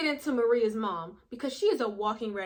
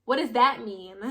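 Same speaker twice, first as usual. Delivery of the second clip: confused question; 8 dB louder, much slower than usual. Retold or imitated. Confused reply to text.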